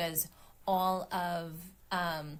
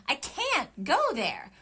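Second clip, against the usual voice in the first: "go" stressed, louder and slow; higher, slow read landing on "go"; 5 semitones higher, 5 dB louder, slower than usual. Shown as a demonstration. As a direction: lean into "go". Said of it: "emphasize different words".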